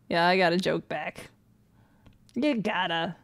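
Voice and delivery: ordinary talk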